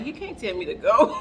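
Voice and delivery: disbelieving thought with a chuckle underneath; inner voice, half laughing. Retold or imitated. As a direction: think it defiantly, a laugh rising. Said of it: "In my mind, I'm like".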